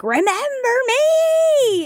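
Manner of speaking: sudden high shout; yell. Retold or imitated. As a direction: scream the name-call at him. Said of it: "I just wanna be like".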